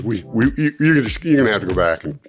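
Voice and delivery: halting false starts, settling as it goes on; retold stammer; stuttering. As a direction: imitate a flustered man restarting his words. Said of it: "he starts stuttering".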